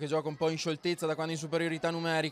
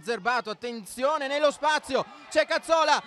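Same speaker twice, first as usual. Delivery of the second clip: rising excitement, faster and higher; excited commentary; 6 semitones higher than usual. Real, not acted. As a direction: build the tension as the attack develops. Live goal chance commentary.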